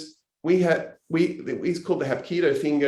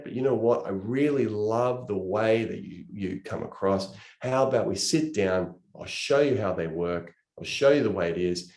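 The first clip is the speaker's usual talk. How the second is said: low, easygoing pitch to a prospect; casual, reassuring approach that settles lower; low-key invitation; 4 semitones lower than usual. Acted. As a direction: ease off gently, no pressure. Acts out approaching a prospective business partner.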